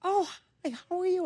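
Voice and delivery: high, light mock First Lady greeting; imitating Michelle. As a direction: play the First Lady answering sweetly. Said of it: "finally she goes".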